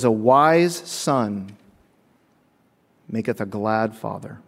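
very slow, weighty quote; solemn slow verse; slow scripture reading. Acted. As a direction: read the verse deliberately.

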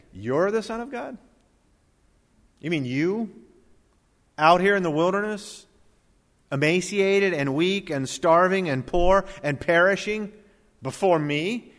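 mock him with disbelief. Preacher voicing Satan taunting the starving Jesus, sneering. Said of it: "It's a way of saying".

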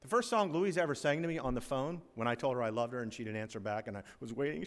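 normal talking voice

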